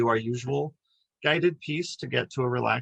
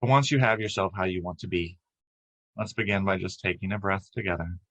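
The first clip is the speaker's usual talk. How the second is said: calm, even meditation guide with long pauses; unhurried lead through breath and body, leaving space between phrases; guided meditation. Acted. Guiding a group to relax as light flows down, guided meditation.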